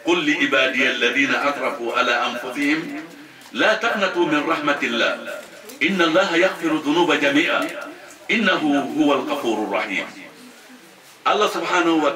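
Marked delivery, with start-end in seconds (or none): 0.1-10.1 rapid chanted Arabic verse; تلاوة سريعة; Quranic recitation. Acted. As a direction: recite the verse quickly in one breath.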